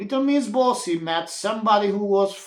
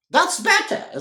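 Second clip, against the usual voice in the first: smiling; 13 semitones higher than usual. A narrator's reading. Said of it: "smiled Wilfred".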